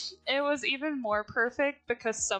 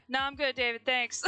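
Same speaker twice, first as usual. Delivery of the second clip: monotone; 2 semitones higher than usual. Retold or imitated. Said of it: "most monotone voice".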